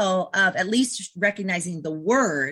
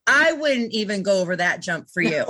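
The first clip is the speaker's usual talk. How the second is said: laughing tease; 3 dB louder than usual. Retold or imitated.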